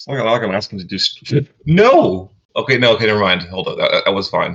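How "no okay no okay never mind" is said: panicked voice with swooping pitch. Reacting to a bad-looking dice roll: panicked voice. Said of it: "Panic in your voice was so funny".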